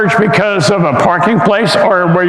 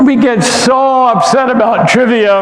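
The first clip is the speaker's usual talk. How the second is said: higher, raised preaching voice; emphatic preaching; 5 semitones higher than usual. Real, not acted. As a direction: drive the point home from the pulpit. Preacher stressing his point.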